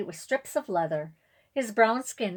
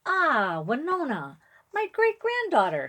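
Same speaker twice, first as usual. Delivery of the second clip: chuckling; 8 semitones higher, 5 dB louder than usual. A narrator's reading. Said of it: "he chuckles".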